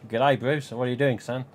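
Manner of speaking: put-on jokey, half-hearted Australian accent; badly faked Aussie greeting, played for laughs. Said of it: "I can't do the Australian accent. I'm crap at it".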